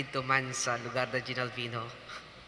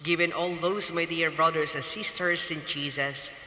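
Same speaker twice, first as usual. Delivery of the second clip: preaching; 2 semitones higher than usual. Acted. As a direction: preach it to the congregation, measured and solemn. Wedding homily resumes.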